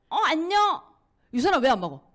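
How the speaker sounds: loud, pushy, high-pitched nagging; pushy greeting. Retold or imitated. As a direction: corner a friend loudly about the product. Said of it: "이렇게 얘기하면". (만나자마자 큰 소리로 다그치듯)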